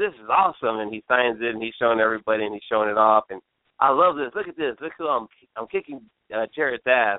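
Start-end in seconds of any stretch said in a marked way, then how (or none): none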